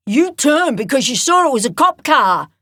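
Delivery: loud, high seething accusation. Acted. Talon accusing the old bikie, seething. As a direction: spit the accusation, barely holding rage. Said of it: "Talon seethed".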